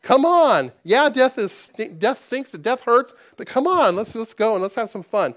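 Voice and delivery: high, loud and upbeat, urging to have fun; God's cheerful rallying call. Pretend. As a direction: shake him awake with joy, loud and high. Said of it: "grab him and slap him around a little bit and say".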